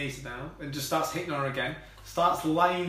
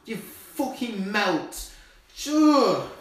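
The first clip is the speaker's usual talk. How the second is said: disgusted insult; 2 semitones higher, 4 dB louder, much slower than usual. Real, not acted. Insulting sidekick.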